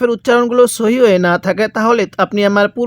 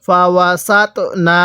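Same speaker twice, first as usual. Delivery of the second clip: syllable-by-syllable recitation, measured and drawn out; slow model reading. Shown as a demonstration. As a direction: recite slowly for learners to copy. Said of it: "পড়ুন".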